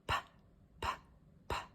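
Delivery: three separate soft puffs, "Pa, pa, pa"; isolated P sound. Shown as a demonstration. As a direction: pop each "pa" with barely any vowel. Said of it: "Can you say that sound?".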